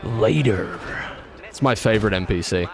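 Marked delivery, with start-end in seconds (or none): 0.0-0.8 lightly put-on NPC sign-off; odd NPC goodbye. Imitating an NPC saying goodbye, suddenly in an odd voice. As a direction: imitate a game character's sudden odd farewell. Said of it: "he'll just be like".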